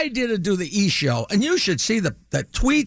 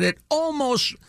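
laughing through the quote; 5 semitones lower than usual. Retold or imitated. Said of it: "She said".

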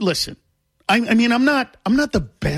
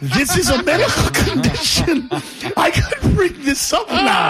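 excited inner voice; 9 semitones higher than usual. Retold or imitated. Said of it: "I'm like".

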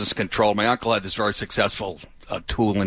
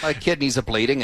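laughing. Real, not acted. Joking while laughing.

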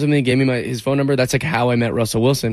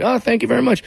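much higher, gushing thanks; flattered; 10 semitones higher than usual. Retold or imitated. To a singer after her compliment, higher and gushing. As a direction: gush a delighted thank you.

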